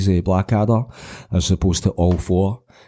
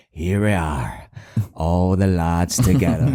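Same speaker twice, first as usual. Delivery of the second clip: creepy quote; slower than usual. Shown as a demonstration. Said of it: "you just go like that".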